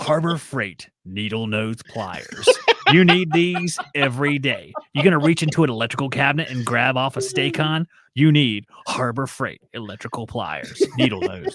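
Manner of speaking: dramatic, epic movie-trailer announcer narration voice. Doing a mock ad after being asked: epic trailer voice guy. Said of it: "You be the epic voice guy".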